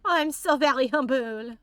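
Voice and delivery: lightly hammed humility, normal volume; mock humble. Streamer repeating the joke, restrained mock humble voice.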